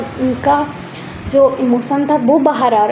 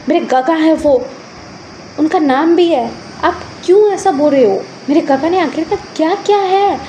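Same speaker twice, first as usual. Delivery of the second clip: higher-pitched, offended protest; indignant defence; 5 semitones higher than usual. Acted. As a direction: stand up for him indignantly. Nephew defends uncle in quarrel. (नाराज़गी भरा विरोध)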